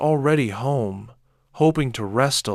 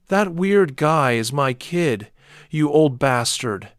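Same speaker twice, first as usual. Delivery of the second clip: higher, louder, slower angry shout; father shouting at the neighbor, higher and louder; 5 semitones higher, 5 dB louder than usual. A narrator's reading. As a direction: defend the son, furious. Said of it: "I shouted".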